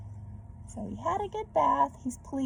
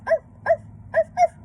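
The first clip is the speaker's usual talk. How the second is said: short, high, loud yips like a happy little dog; happy dog barks; 9 dB louder, faster than usual. Acted. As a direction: bark it out brightly, short and high. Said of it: "barking short, happy barks".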